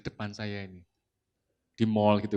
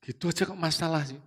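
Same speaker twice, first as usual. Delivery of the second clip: imitating an irritated husband, tutting first; tut, then brush the complaint off; dismissive tongue click; 3 semitones higher, faster than usual. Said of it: "Pakai cek lain".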